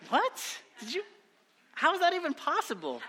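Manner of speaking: half-laughing how is that possible; incredulous. Real, not acted. Pastor reacting to someone binging four seasons, incredulous. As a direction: pitch jumps way up in disbelief.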